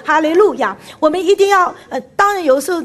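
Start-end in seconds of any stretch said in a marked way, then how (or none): 0.0-0.8 firm, mildly raised call of praise; triumphant praise. Shown as a demonstration. Preacher urges congregation to join, triumphant praise. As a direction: proclaim it with confidence. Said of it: "要用夸胜的声音".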